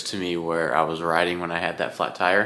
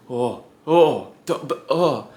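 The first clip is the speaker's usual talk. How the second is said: high, stammering imitation of a nervous guy; mock nervous stammer; 6 semitones higher, slower than usual. Mocking the bike shop guy's nervous stammer, pitched high. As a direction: stutter it out like a jittery shop clerk.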